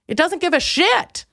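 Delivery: normal talking voice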